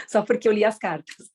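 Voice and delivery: smug, self-admiring boast, lightly voiced; a hint of the proud spiritual ego; mock spiritual ego. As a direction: show off like a vain seeker. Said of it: "ele quer falar assim".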